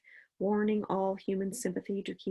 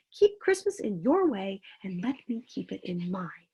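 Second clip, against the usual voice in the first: stern. Acted. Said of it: "returned the uncle sternly".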